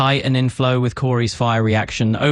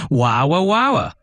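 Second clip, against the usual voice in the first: wambulance wow; 2 semitones higher, much slower than usual. Retold or imitated. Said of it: "the wambulance, like".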